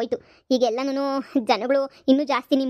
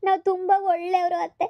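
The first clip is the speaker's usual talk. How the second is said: mock crying plea; 4 semitones higher than usual. Bride pleads with mother-in-law.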